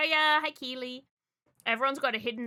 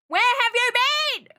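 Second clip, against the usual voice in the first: high, loud, slow hammed-up demand; dragged-out playful outrage; loud stretched mock scolding; mock yell; 12 semitones higher, 12 dB louder than usual. Repeats question, then whispers it.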